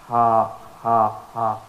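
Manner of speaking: light ha breathed out from the end of the throat; breathy end-throat ha. Shown as a demonstration. Teacher demonstrating the small ha. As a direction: let ha spill out with lots of breath. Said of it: "ha is a kind of deeper voice".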